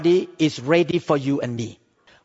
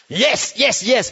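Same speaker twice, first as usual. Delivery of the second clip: acted-out keen "yes", pitched higher; eager agreement; 4 semitones higher, slower than usual. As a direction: play a wide-awake listener cheering the preacher on. Acts out his keen, wide-awake listening.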